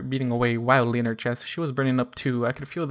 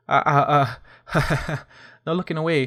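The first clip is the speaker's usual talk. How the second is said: teasing giggly murmur; 2 semitones higher, 4 dB louder than usual. A narrator's reading. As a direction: tease him with a little laugh. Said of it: "she murmured".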